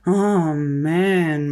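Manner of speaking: disappointed kids' groan, put-on voice. A narrator's reading. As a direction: groan it like let-down kids.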